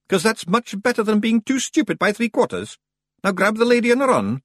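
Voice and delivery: high, loud Scots pixie voice; cheerful urgent command; Scots Feegle. Acted. Rob Anybody urges Roland to grab the lady and run.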